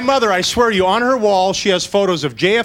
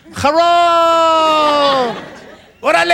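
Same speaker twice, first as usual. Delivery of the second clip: loud drawn-out call across the water; long shouted call into the night; 7 semitones higher, 4 dB louder, much slower than usual. Retold or imitated. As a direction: hail the other ship from far off. Sailors calling across ships.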